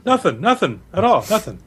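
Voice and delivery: high-pitched, guilty protest; acted squirming innocence; nervous denial. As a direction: deny it like a cornered crook. Cornered Ronnie denies scheming.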